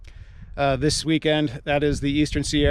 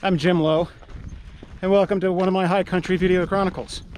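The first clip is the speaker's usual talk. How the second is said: muffled behind a mask; talking through a cloth mask; through a face mask; 2 semitones higher than usual. Real, not acted. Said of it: "Please forgive the mask".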